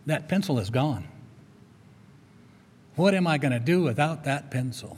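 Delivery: understated mock despair; mock depression. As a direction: play up being lost without it, lightly. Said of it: "Then depression comes".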